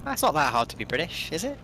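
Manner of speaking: mock British accent, casual; offhand British lilt. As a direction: put on an easy British accent. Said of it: "asking you to do a British accent".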